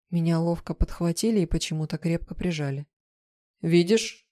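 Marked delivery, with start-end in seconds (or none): 3.6-4.3 playfully amused "see?"; amused question. A narrator's reading. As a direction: ask with a hint of laughter. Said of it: "смешливо спросил Мар".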